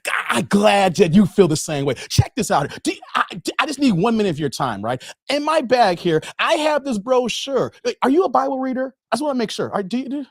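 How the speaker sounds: lightly voiced eager canvasser; door-to-door preacher. Carl asking Dave for one minute, mildly eager preacher. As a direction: press the pitch with friendly insistence. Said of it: "I gave you the pitch".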